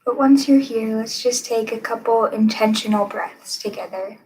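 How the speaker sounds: calm guided-meditation delivery, long pauses. Acted. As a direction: guide listeners gently into stillness, leaving room between phrases.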